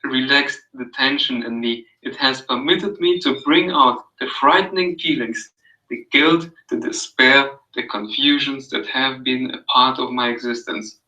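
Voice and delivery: calm, even read-aloud of a passage; soothing reading. Acted. Reading Carl Rogers to a friend, soothing read-aloud. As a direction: read it gently, like an audio book. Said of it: "It was so soothing".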